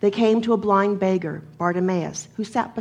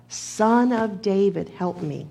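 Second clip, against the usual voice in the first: mildly raised, slow call that drops away at the end; 3 dB louder than usual. Retold or imitated. Blind beggar to Jesus, mildly calling out. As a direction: lightly imitate a cry for help. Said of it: "Bartimaeus calls out".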